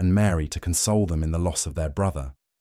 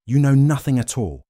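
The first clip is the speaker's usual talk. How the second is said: higher, louder dismissive retort; scornful rebuke; 8 semitones higher, 5 dB louder than usual. A narrator's reading. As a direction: cut the council down with raised voice. High priest rebukes the council.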